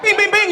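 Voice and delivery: ding like a slot machine paying out; slot machine noise. Retold or imitated. Woman mimicking a Vegas slot machine, chiming bings. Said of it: "You're like".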